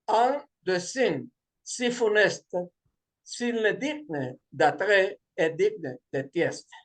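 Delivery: slow French read with a heavy Spanish accent; leído despacio en un francés torpe con acento hispano; bad French. Shown as a demonstration. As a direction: read the French lines slowly, in halting schoolbook French. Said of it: "en mi mal francés".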